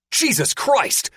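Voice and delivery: high, slow alarmed cry; a pilot cries out in shock as monsters appear. Acted. Loud horrified cry. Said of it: "Porthos cries".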